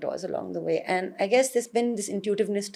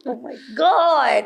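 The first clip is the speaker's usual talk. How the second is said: frazzled; 3 semitones higher, 3 dB louder, slower than usual. Retold or imitated. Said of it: "and I was frazzled".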